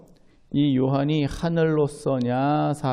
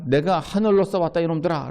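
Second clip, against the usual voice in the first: lightly mock declaration; 3 semitones higher than usual. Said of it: "라고 얘기해봐야".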